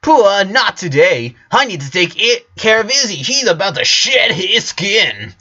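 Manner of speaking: pet-loving sister explaining; high sister voice. A narrator's reading. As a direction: voice a kid fussing over her pet.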